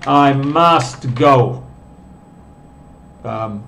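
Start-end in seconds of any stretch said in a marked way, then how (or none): 0.1-1.6 slow example. Shown as a demonstration. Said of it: "lo voy a decir".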